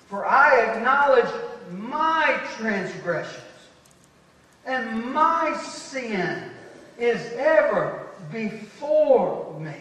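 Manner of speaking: slow, solemn reading of the verse; scripture reading. Shown as a demonstration. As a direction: read the psalm slowly, letting each phrase sit. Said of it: "Look at verse number three".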